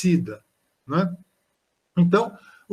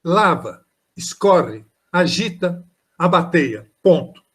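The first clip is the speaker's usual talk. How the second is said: poem recital; 3 dB louder, slower than usual. Shown as a demonstration.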